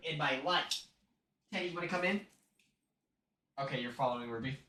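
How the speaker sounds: soft low murmur; hushed aside. Real, not acted. Talking to stream while holding the dog, soft and low. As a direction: keep it down, speaking low and soft.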